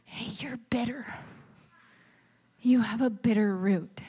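imitated whisper. The Lord speaking privately to the preacher in morning prayer, imitated whisper. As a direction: whisper it as a gentle private word. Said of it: "I hear him whisper to me".

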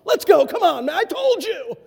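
loud, high orders to leave; scolding. Retold or imitated. Bus captain ordering Courtney home, loud. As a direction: send him home, sharp and loud. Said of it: "I just let him have it".

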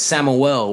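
"Samuel" run together as one slurred name; local pronunciation. Real, not acted. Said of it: "Listen how he says Samuel".

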